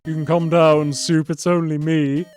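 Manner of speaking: loud character voice calling out. A narrator's reading. Font calls Soup down from the pole, loud calling. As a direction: call up to someone high above. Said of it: "a voice called from below".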